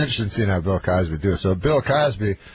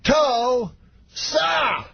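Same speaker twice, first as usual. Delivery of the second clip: higher, long drawn-out Cosby shout; Cosby hyping crowd; 13 semitones higher than usual. Retold or imitated. To the cheering crowd, hammed-up Cosby call. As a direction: stretch the name to work the crowd. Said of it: "everybody screams louder".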